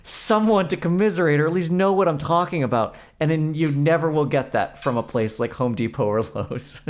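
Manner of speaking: high, loud, slowing exasperated plea to a clerk; exasperated rant. Retold or imitated. To the store clerk, a high, loud exasperated rant. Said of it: "And I was like".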